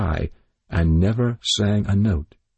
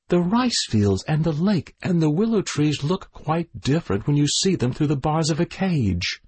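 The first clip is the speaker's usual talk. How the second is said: lightly raised, wistful bird voice; sad little bird; 8 semitones higher than usual. A narrator's reading. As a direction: gently explain that the bars spoil it. Bird explains to September.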